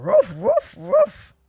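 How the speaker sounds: high yappy barking; dog bark imitation. Spotting the fine Q dog in college, high barking. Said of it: "so I was like".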